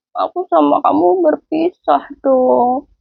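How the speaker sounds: put-on slow, mournful little-girl goodbye; sad child voice. Child Samsam saying goodbye to the narrator, mock sad and slow. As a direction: drag the words out like a sad small child. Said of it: "Samsam itu sedih".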